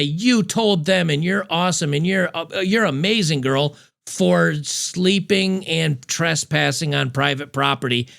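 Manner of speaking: gushing mock praise, slowed; lightly hammed-up fan telling her she's amazing; mock cheering fan. Commentator voicing her online fans in mild mock praise. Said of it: "pat her on the back and say".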